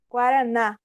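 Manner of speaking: Guaraná with the final NÁ set apart; Guara-NÁ, final syllable as the strong one; stress on NÁ. Shown as a demonstration. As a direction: land on the last syllable NÁ of Guaraná. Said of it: "O na é o mais forte".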